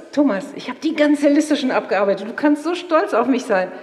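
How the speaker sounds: imitating own proud boast; proud announcement. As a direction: report your achievement with lilting pride. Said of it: "sagte ich stolz".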